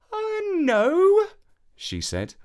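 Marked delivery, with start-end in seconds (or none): 0.1-1.3 high, hesitant princess reply; a startled little no. Acted. Princess declining more help, high and hesitant.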